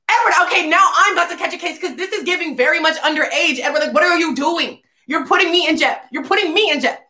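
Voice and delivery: high-pitched, hurried exasperated protest; mock panicked scolding. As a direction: scold him as if about to be in trouble. Acted alarmed scolding over legal trouble.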